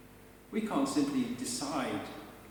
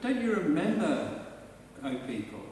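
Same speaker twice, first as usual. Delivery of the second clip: rising, insistent reminders to remember; pleading Lord. Acted. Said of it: "He's invoking their memory of their history".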